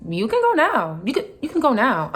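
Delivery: sing-song brush-off, mockingly; mocking mimicry. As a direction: imitate someone airily dismissing you. Mimics coworker dismissing her.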